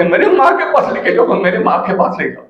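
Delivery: high-pitched mimicked plea, easing down; lightly acted girlish pleading; imitating pleading girl. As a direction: mimic a girl begging to be taken along. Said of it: "आता ही मूर्ख मुलगी मला म्हणते".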